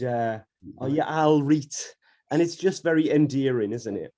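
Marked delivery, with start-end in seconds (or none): 0.8-1.9 Geordie greeting. Shown as a demonstration. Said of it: "we'll call people things like".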